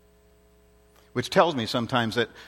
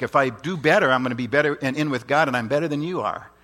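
lightly acted boast, starting loud; self-righteous boasting; 4 dB louder than usual. Preacher voicing the flesh that likes to think, boastful. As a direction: push it out like a mild show-off. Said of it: "our own flesh likes to think".

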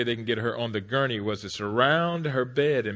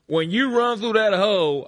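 loud, high barking coach voice; yelling coach; 10 semitones higher, 9 dB louder than usual. Retold or imitated. Coach yelling instructions at a ten-year-old fullback. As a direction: bark it like a football coach. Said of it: "the coach said".

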